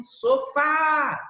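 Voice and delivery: sofá with a long, high final "fá"; calling the word. Shown as a demonstration. Teacher giving an example of oxítona, sofá stretched on "fá". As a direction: hold the last syllable "fá" of sofá high and drawn out.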